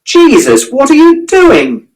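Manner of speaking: put-on high, slow, shouted alarm at a boy on the tracks; startled shout. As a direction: yell it out in shock. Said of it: "someone shouted".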